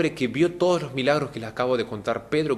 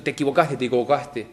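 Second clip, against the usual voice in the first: condemning. Retold or imitated. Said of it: "como condenándolo".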